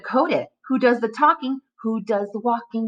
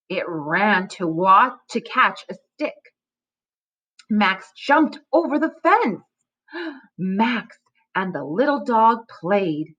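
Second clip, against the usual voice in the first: put-on reading to children. Shown as a demonstration. Teacher models fluency reading to students. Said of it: "Watch me practice reading this".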